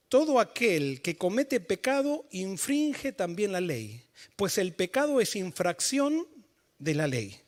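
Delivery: slow, measured reading of the verse; the preacher reads the verse aloud slowly; scripture reading. Shown as a demonstration. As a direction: read the verse slowly and deliberately. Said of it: "Primera de Juan tres cuatro dice así".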